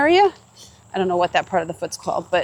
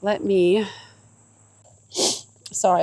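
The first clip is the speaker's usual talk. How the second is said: sniffly after happy tears; after crying. Real, not acted. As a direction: still sniffling, catching breath. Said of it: "I'm all sniffly now".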